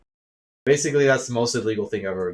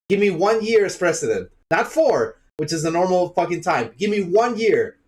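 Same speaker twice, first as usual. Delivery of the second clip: raised, heated ranting with a higher pitch; worked-up rant; 4 semitones higher than usual. Real, not acted. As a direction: vent your anger about the country. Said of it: "Sorry for being a little bit angry".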